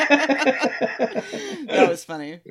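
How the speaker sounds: words through laughter; laughing. Real, not acted. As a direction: still laughing while talking. Laughing at the impression.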